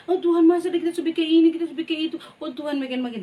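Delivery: quick, high mock whine at God; a hint of a whining believer; whining complaint. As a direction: complain like a sulky child. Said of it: "Jangan bilang".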